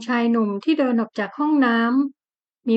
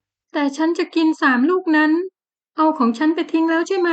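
tearful insisting; 6 semitones higher than usual. Acted. Tearful wife insists on persimmons.

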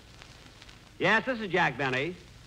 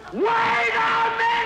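a sudden, much higher, louder, slow yell that drags the words out; exasperated shout; 6 dB louder, much slower than usual. Real, not acted. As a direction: lose patience and bellow it out. Exasperated with the quartet.

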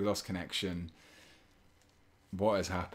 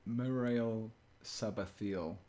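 drawn-out, careful name; slow tongue twister; 3 semitones higher, much slower than usual. Shown as a demonstration. Streamer trying a chat's tongue twister, slowly. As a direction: stretch every syllable out slowly. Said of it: "sound okay when you say it slowly".

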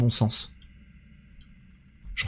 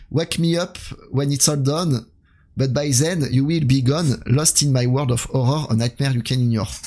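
put-on French reader's proud English accent, a bit slow; hammed-up English accent. Streamer reading a game poem to chat in mock-grand English accent. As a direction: read the poem in your best English accent. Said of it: "j'ai pris mon plus bel accent".

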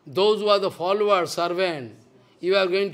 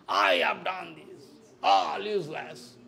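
a lightly voiced, much lower, slow mock boast; mock proud soul; 3 semitones lower, 4 dB quieter than usual. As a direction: put on a low, slow voice to mock pride.

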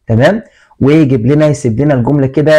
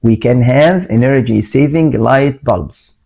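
slow read-aloud; much slower than usual. Shown as a demonstration. Teacher reads answer sentence aloud.

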